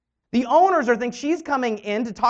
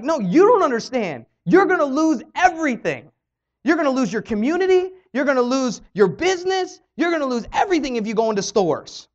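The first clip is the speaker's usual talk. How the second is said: raised, heated retelling of her yelling at the CEOs; retold yelling; 3 semitones higher, 3 dB louder than usual. Teenager retold yelling at company owners, louder and higher. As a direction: push it hard like you're warning them, louder and higher. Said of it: "she's yelling at them".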